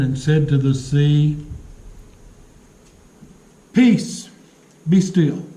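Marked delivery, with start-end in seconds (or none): 3.7-5.4 forceful, firm command to the storm. Retold or imitated. Jesus commanding the wind and sea, forceful. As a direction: order the sea to calm with authority. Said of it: "with a commanding voice and a forceful voice".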